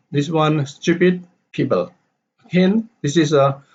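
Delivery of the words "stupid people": STU-pid PEO-ple, high start and a fall; stressed-unstressed pattern. Shown as a demonstration. Teacher demonstrating the pattern, stressed then unstressed. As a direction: stress the first half of "stupid" and "people". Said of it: "stress, unstress".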